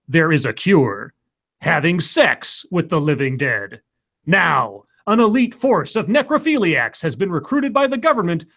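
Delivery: dramatic trailer narrator; movie trailer voice. Acted. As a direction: epic in-a-world announcer read. Reads a fake movie trailer.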